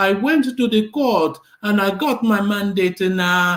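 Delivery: mock squeaky, whiny voice. Criticising a politician, the speaker imitates Peter Obi's squeaky, whiny voice. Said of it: "in that rather squeaky, whiny voice".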